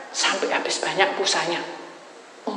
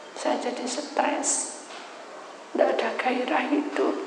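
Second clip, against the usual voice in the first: tearful confession; 3 semitones higher, slower than usual. Retold or imitated.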